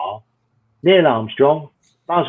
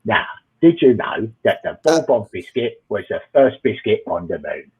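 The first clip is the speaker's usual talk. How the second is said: lightly voiced Cockney film star, dropping lower at the end; a hint of a Cockney actor impression; Michael Caine; 5 semitones lower than usual. Comic showing off his best impression to the crowd, lightly imitated film star. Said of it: "this is my best Michael Caine accent".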